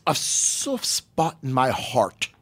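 slow, soft-edged attempt at an English accent; drawn-out bad English accent; put-on English accent. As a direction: try a hammy English accent, slowly. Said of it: "I have an English accent now".

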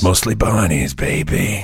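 slow, low, drawn-out artist drawl; cool artist voice. Pretend. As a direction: play the smug artist, lay it back slow. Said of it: "I'll be the artist".

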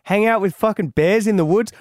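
mock refusal. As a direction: balk at the idea. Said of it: "And it's like".

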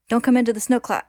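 high, loud urgent shout; shouted warning. A narrator's reading. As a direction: shout back to warn a comrade. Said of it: "who quickly shouts back to warn him".

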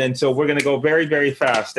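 fast, wired talk; caffeinated rush; too much caffeine. Real, not acted. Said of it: "four cups of coffee today".

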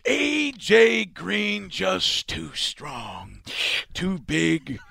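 slow, drawn-out Jack Nicholson; slow Jack Nicholson finish to the call; Jack Nicholson impression. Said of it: "Finish the call as Jack Nicholson".

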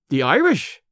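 a startled echo rising at the end; can't believe what he just heard; astonished question. Acted. Brand echoes Amos in astonishment, a startled question. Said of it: "I exclaimed in astonishment".

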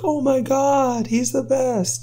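high, drawn-out gushing; imitating an awestruck fan, way up high; mock starstruck fan. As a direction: gush in a put-on high voice. Voices awestruck GameStop staff.

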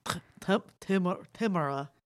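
halting attempt at a Russian accent; bad Russian accent. Shown as a demonstration. Guest trying to pronounce the name, bad Russian accent. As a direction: stumble into Tamara with a poor Russian accent. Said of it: "that was a really bad Russian accent".

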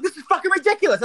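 high falsetto screech of outrage; demonstrated screaming. Shown as a demonstration. Showing how they screamed in the pharmacy, high screech. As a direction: screech it far above normal pitch. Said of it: "how you actually screamed".

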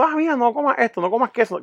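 lightly voiced girlfriend. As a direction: mildly mimic her orders. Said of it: "De momento". (voz de la novia, algo aguda)

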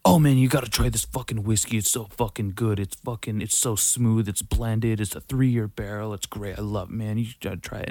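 pushy hard sell, fading off; salesy pitch. Retold or imitated. Recommending whiskey to a friend, mock salesy pitch. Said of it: "like, say".

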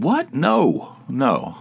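startled high yelp, then firm; incredulous refusal. Retold or imitated. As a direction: retell a taken-aback, high-pitched refusal. Retelling refusal of request for money.

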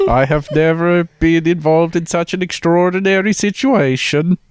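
put-on light Dutch accent reading quotes. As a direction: read it with a slight Dutch accent. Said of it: "all of the quotes in your best Dutch accent".

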